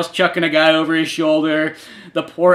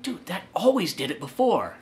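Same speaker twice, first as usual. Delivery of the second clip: whisper; 9 dB quieter than usual. Retold or imitated. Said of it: "I kinda whisper over to you".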